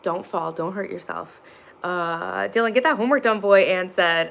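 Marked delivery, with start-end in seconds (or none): 2.5-3.6 mock stern parent. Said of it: "I meant get that homework done".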